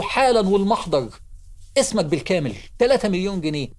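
stern official demanding details, mildly angry; retold anger. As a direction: act out an irate, peremptory official. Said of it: "الراجل غضب".

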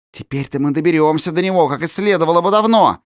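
high, fast gloating. Acted. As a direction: relish the coming revenge. Gloating conspirators. (злорадно, быстро)

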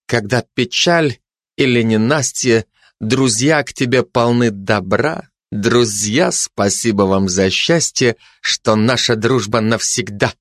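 measured verse with a touch of irony; lightly ironic declaiming. A narrator's reading. Fascist recites a friendship poem to the pair, ironically. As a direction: recite it with mock lyricism. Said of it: "с лёгкой иронией продекламировал".

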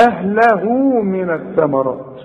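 «أهله» موصولة بواو ممدودة; أشبع ضمة هاء «أهله» في الوصل; مد صلة الهاء. Shown as a demonstration. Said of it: "عند الوصل عندك الواو الصغيرة". («أهله من الثمرات» بهاء ممدودة واوًا)

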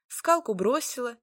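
plain reading voice

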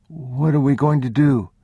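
put-on high, anxious child's voice; a scared little boy asking; young boy. A narrator's reading. Frightened boy asking his father in the dark.

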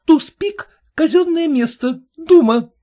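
high, loud accusing cry; angry interruption. A narrator's reading. Daughter cutting off the peddler, loud and furious. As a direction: cut her off in a rage. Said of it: "перебила её Елена Герасимовна".

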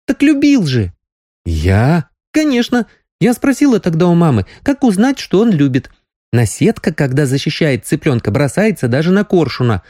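put-on young girl, insistent.

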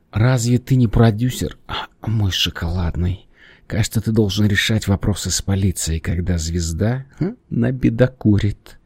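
cooing seductive voice; femme fatale. Acted. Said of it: "проворковала она". (воркующая роковая женщина)

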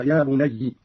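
بني ending in doubled y with "i"; ya bunayyi. Shown as a demonstration. Teacher showing the derived form, بني said "bunayyi". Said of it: "فصارت هكذا".

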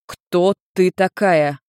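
very slow, deliberate question. Acted. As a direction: spell it out slowly. Nergal asks slowly.

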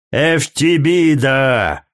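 slow, drawn-out roar of the name in fury; thundering. A narrator's reading. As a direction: bellow her name in a rage. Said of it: "загремела Намай, в бешенстве". (гневный громовой окрик)

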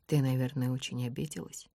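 soft, gentle apology; gently consoling her; tender. A narrator's reading. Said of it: "произносит он нежно".

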